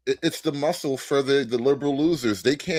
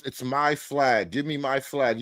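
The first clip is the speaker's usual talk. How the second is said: mocking imitation; 3 dB quieter than usual. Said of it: "Look at how she just lies".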